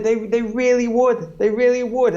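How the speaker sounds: gently but firmly insist; imitating his own insistent self; insistent reply. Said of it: "And I was like".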